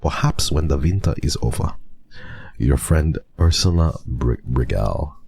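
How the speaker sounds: playful mock German letter-reading voice; German accent. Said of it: "What is this accent?".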